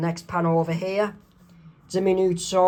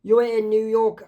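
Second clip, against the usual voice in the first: raised, lovestruck cartoon call; higher, eager acted voice; excited greeting; 4 semitones higher, 5 dB louder, slower than usual. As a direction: greet your true love excitedly. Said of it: "Mark Chang's excited to see Vicky".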